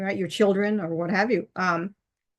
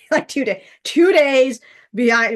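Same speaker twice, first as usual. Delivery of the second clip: raised, emphatic mock complaint; retold nagging; 5 semitones higher, 6 dB louder than usual. Partner chides her for being late, retold nagging.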